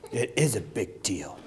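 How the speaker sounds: half-laughing, can't believe it; incredulous mutter. Retold or imitated. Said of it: "she was like".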